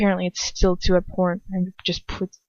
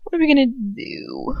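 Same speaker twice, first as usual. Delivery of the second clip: higher frantic question; panicked plea; 6 semitones higher than usual. Acted. Narrator panicking to Lucius, higher. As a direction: plead in rising panic. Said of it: "You can tell that I'm tired of saying".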